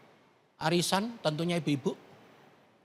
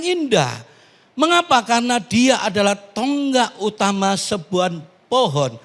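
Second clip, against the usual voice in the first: loud, declamatory reading of a saying; emphatic preacher's declamation; sermon recitation; 4 semitones higher, 7 dB louder than usual. Acted. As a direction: proclaim it to the whole congregation.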